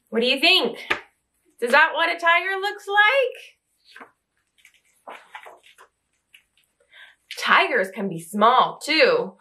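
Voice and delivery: lively storybook reading, voices rising for questions; reading to children. Acted. Reading I Am Tiger aloud to young children, lively and animated. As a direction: read it like a bedtime picture book to little ones.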